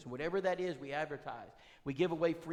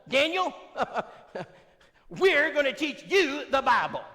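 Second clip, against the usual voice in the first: high, loud and slow falsetto; high loud falsetto imitation of Brenda; Brenda's voice; 11 semitones higher, 13 dB louder, slower than usual. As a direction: announce it to the sleepy husband. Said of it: "She says".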